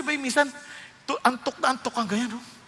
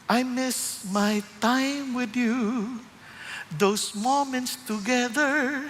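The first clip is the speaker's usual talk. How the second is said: tender longing; much slower than usual. Retold or imitated. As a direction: say it like a loving God who misses you. God speaks in retold story.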